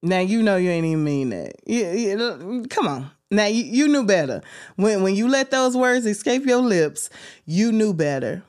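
mock side-eye scolding; sassy callout. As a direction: call their bluff like a big sister. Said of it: "we just be looking like".

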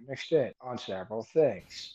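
flat robotic monotone. Real, not acted. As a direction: talk like a stiff robot. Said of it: "I sound like a robot".

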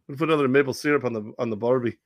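muddled mock Canadian-Aussie accent; Steve Nash. Fired coach offering barbecue, in a mock Canadian-Aussie accent. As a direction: mash Canadian and Australian accents together. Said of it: "Australian or Canadian or bonjour".

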